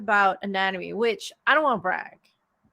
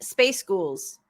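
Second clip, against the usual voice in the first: Scottish accent trick. Shown as a demonstration. Author showing her friend a trick, mock Scottish accent. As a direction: space ghouls said slowly as two English words to sound Scottish. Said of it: "this is the only Scottish trick I have".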